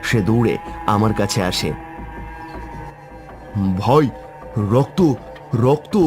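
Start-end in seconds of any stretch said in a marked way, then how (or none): 3.8-5.9 frightened. Acted. Friend runs in after seeing blood.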